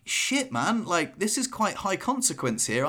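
half-joking panic at the danger; mock alarm. Retold panic while swimming back.

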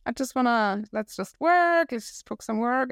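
mock a colleague waving off small talk; dismissive colleague. Recalling Chinese colleagues who refused chat, mock dismissive voice. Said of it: "but it was more like".

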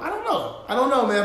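high, laughing through it. Real, not acted. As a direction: laugh out the words. Repeats I don't know, laughing.

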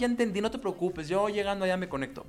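high, brushing-off "yes, son"; dismissive dad voice. Retold or imitated. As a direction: humor the kid without listening. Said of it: "me daba por mi lado".

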